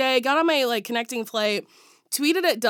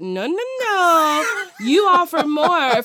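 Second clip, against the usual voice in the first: mock crying complaint; 7 semitones higher, 4 dB louder, slower than usual. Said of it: "I said".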